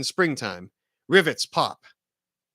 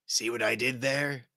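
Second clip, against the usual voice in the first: much softer altered villain voice; a quiet smug taunt as the Goblin; gloating Goblin; 4 semitones lower, 7 dB quieter than usual. Acted. Goblin taunting Spider-Man after catching his punch, soft smug voice. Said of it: "The Green Goblin says".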